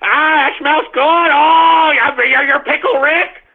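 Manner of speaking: lightly voiced mocking fan squeal. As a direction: ham up a gushing fan, high and eager. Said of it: "autists will be like".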